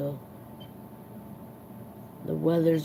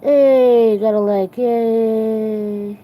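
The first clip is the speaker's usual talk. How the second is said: loud, high burst of joy; excited cheer; 4 semitones higher, 10 dB louder, much slower than usual. Real, not acted. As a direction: celebrate the like out loud. Streamer cheers a new like.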